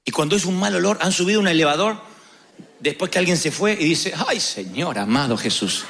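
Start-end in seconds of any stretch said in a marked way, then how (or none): 4.3-5.8 lower, suffering sigh of a plea; mock exasperated groan. Elevator rider recoiling from a bad smell, mock pained plea. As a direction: play it like a pained prayer in a stinky lift.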